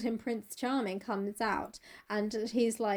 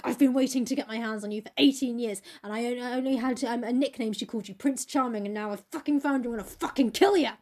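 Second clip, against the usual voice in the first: mock angry threat. Brother confronts his sister's Prince Charming, mock menacing. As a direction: threaten him like a sworn avenger, hammed up. Jim threatens man he has pinned.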